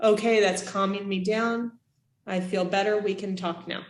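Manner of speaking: softly settling, fading to quiet; calming down. Shown as a demonstration. Teacher showing kids how to calm down, soft and settled. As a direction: breathe out and talk yourself calm. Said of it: "sit your bottom on the floor".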